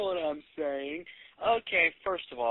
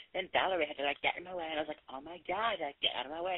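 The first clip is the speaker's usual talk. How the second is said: put-on valley girl; 4 dB quieter than usual. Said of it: "tend to speak".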